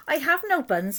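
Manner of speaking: high little squirrel voice; small squirrel. A narrator's reading. Squirrel answers the robber rat, high timid voice. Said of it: "the squirrel replied".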